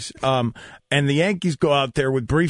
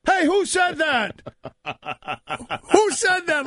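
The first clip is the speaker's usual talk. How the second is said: surprised; 12 semitones higher than usual. Retold or imitated. Players reacting to crude heckle.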